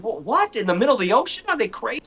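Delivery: high surprised questions; hammed-up disbelief; mock disbelief. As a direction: act shocked at snorkeling. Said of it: "I said".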